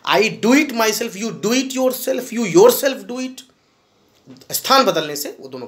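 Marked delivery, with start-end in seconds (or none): 0.1-3.4 slow demo. Shown as a demonstration. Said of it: "वो दबाव पैदा करता है".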